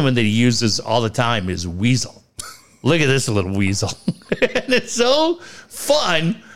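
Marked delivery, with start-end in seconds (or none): 2.8-3.9 quick, lower, lightly imitated Irish accent; Conor McGregor. Host quoting the coach's weasel insult, light Irish accent. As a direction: toss off a mocking jibe with a hint of Irish. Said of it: "Conor would say in that accent".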